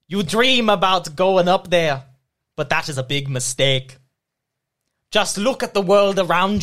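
lightly voiced Scottish ogre; Shrek. Reading song lyrics for a guessing game, attempted Shrek voice. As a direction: recite lyrics in a rough stab at an ogre. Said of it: "Just do your best Shrek".

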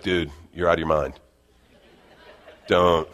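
lightly voiced Southern California surfer, low and unbothered; a mellow Southern California surfer talking someone down. The Spirit warning a heated husband, laid-back Southern California surfer. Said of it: "sounds like a Southern California surfer".

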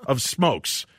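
high scolding wife voice. Retold or imitated. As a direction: chide him as the wife. Wife scolding, acted quote.

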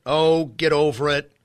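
dismissive imitated jeer; mocking the left. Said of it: "But the left mocks it".

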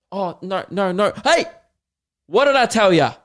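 loud, high scolding teacher; angry teacher yell. Retold or imitated. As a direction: bark at the class like a fed-up teacher. Teacher yelling at class.

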